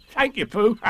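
high, bouncy tiger voice; Tigger. A narrator's reading. Tigger accepting Pooh's offer of acorns, high and bouncy. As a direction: pipe up gratefully as an excitable tiger. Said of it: "said Tigger".

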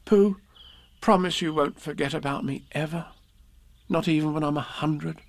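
put-on high child's voice, pleading; Christopher Robin, earnest boy. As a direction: ask for a promise as a small boy. Story figure Christopher Robin pleads.

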